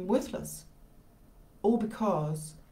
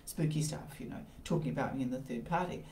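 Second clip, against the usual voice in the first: critic's voice; 4 semitones lower, 6 dB quieter than usual. Retold or imitated. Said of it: "the critical critic is going".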